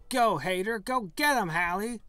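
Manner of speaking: high, loud battle cry; shouting. Acted. Unhinged woman urging her other self to attack, high and loud. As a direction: screech it as she lunges. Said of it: "she shouts and lunges at you".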